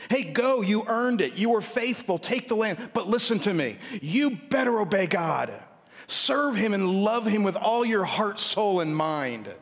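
a proud dad who then warns; upbeat fatherly Joshua. Retold or imitated.

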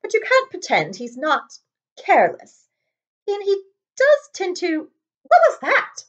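high, rising into a startled question; startled McGonagall. Acted. McGonagall hears a roar overhead, startled and high. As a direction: breaks off at a sudden noise.

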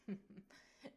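low rumbling chuckle. Acted. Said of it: "Svava rumbles herself".

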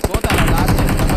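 loud game callout; excited shout. Real, not acted. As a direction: yell the callout.

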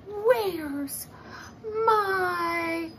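high, loud cry of alarm; a child suddenly missing her toy, rising to a loud high shout; alarmed little girl. Acted. Olivia noticing her toy is gone, high loud alarm.

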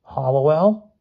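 high squeaky voice; squeak. A narrator's reading. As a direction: squeak it out like a scared kid.

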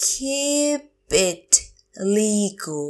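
long "Keep", then "it", then "legal"; slow teacher model of "Keep it legal"; word by word. Shown as a demonstration. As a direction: pause between the words of "Keep it legal". Teacher repeats phrase word by word.

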